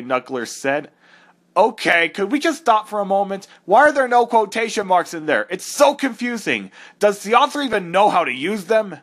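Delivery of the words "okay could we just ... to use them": exasperated interruption. Acted. Knuckles breaks in on fanfic.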